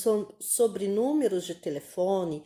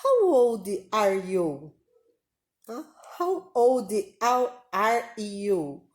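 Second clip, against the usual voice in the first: slow careful model; slower than usual. Shown as a demonstration.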